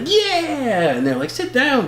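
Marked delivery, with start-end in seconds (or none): 0.0-0.9 high, drawn-out mock cheer; retold cheer. Fan cheering at the screen, retold excitement. Retelling own cheer in cinema. 1.3-1.9 high-pitched mock telling-off; imitated scolding. Audience telling the fan off, imitated scolding. Others scolding him in cinema.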